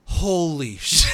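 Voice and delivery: slow, stretched, breaking into laughter; amazed bystander, played for laughs; laughing through a mock gasp. Character reacting behind him.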